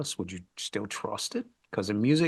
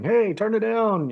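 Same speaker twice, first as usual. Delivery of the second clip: higher, louder, drawn-out holler; retold yell; 11 semitones higher, 8 dB louder, slower than usual. Band guy yelling across the venue, retold holler. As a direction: call it out long and high across a venue. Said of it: "walking around yelling".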